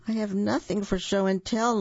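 a hint of a tearful little fox; sobbing. Reader voicing Lawrence telling papa he has nothing, mildly tearful. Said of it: "Lawrence sobbed".

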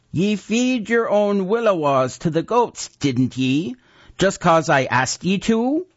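put-on a scheming old necromancer, self-important; old wizard Unk Unger. A narrator's reading. Unger presses the boy.

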